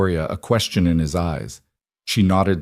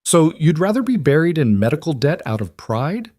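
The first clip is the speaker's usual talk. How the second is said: rising anger; 8 semitones higher than usual. A narrator's reading. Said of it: "Victoria felt anger rising to match his".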